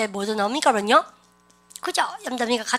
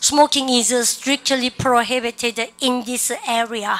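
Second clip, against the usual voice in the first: slow, measured English sentence; deliberate teacher's drill reading; repeat-after-me model; much slower than usual. Shown as a demonstration. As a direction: lead the class through it word by word. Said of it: "시작".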